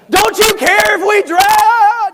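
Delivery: high, loud, slow accusing shout; angry accusation. Retold or imitated. Disciples shouting at sleeping Jesus in storm. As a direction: yell it at him with attitude. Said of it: "with a bad attitude".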